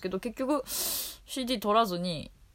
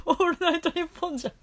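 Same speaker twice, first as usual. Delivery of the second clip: laughing; 10 semitones higher, faster than usual. Real, not acted. Joking correction of show name.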